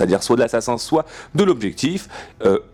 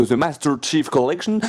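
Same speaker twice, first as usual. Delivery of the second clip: English accent. Shown as a demonstration. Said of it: "je le dis bien".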